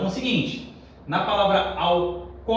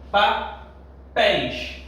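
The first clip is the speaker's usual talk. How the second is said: 1 drawn out; 3 semitones higher, much slower than usual. Shown as a demonstration. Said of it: "teacher drawing out example word".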